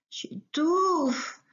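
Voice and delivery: a small rabbit gasping he can't breathe; squeezed little rabbit. Acted. Rabbit crushed in the bear's hug, choked. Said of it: "a très envie de répondre Lapinou".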